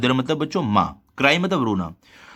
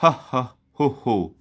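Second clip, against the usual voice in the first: king laughing; much slower than usual. A narrator's reading. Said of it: "unable to control himself".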